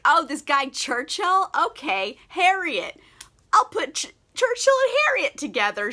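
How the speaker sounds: high, eager mock matchmaker, rising to fast; mock scheming Emma. Mocking Emma's matchmaking scheme, high and eager. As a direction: pitch up as the plan clicks.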